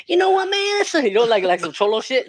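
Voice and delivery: put-on high, loud Mexican cholo accent. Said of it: "a guy with a sombrero".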